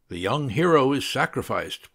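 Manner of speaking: mildly solemn pronouncement; solemn intoning. A narrator's reading. Student intoning a line after reading Golden Bough, mildly solemn. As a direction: intone it with a touch of gravity. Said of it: "Paul intoned solemnly".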